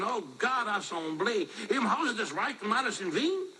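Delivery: high-pitched, hammed-up American-accented German; broad American accent mangling the German. Shown as a demonstration. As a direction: struggle through German like an American. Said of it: "how I would do it like an American".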